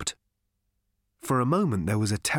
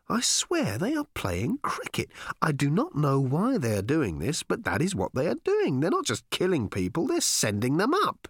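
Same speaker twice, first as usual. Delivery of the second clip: shout; 4 semitones higher than usual. Acted. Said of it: "he shouted".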